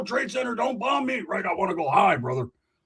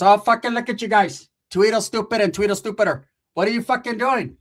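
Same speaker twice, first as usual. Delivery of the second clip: a hint of a loud aunt; scolding aunt; 4 semitones higher, 4 dB louder than usual. Aunt scolding the nephews, lightly voiced. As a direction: scold the two boys. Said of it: "My tia's".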